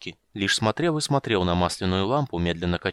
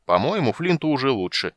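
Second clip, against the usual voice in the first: solemn announcement; 4 semitones higher, 4 dB louder than usual. Acted. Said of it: "объявил он торжественно".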